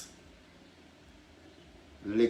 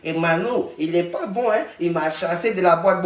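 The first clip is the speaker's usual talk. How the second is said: mocking whine; 4 semitones higher, 4 dB louder than usual. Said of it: "tu dis que".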